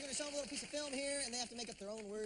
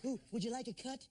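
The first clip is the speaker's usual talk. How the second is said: impression playing a cop pulling someone over; 4 semitones higher than usual. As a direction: ask like a stern traffic cop, pitched up. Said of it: "do a different impression".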